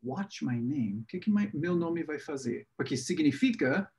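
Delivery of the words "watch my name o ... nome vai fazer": puzzled inner thought. Retold or imitated. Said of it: "eu pensei".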